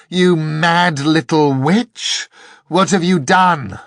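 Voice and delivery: high, loud outraged yell; furious shout. A narrator's reading. Angel shouting at the girl who tricked it, furious. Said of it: "it shouted".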